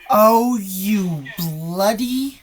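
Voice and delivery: loud, slow, drawn-out exclamation; shocked outburst. Real, not acted. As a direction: blurt it out in shock. Reacting to a scary clip.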